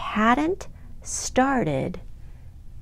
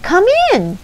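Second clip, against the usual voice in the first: calling out; 12 semitones higher, 8 dB louder than usual. Acted. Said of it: "said Snail".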